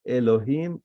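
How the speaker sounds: "Elohim" said as one unbroken word; undivided word. Shown as a demonstration. Teacher showing that God's name is one, undivided. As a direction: say "Elohim" in one go, no gaps between syllables. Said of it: "you don't divide it".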